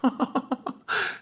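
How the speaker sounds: soft, breathy unvoiced chuckle; laugh. Friend laughing off the talk, soft breathy laugh.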